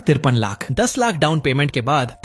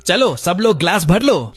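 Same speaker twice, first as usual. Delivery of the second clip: a slightly louder call to fill glasses; host rallying the table to fill glasses, louder; said loudly; 4 semitones higher, 3 dB louder than usual. Acted. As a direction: raise your voice for the whole table. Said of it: "शाओदा ने जोर से कहा".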